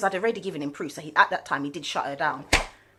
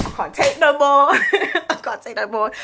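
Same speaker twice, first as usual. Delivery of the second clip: a loud, higher yell of frustration; ballistic outburst; 4 semitones higher, 8 dB louder than usual. Retold or imitated. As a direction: blow up at the court, loud and high. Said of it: "I just went ballistic".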